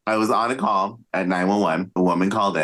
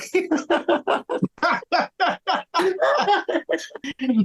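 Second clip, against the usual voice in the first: big laugh. Real, not acted. Cohost laughing hard at the doctor joke, high burst of laughter. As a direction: crack up at your own punchline.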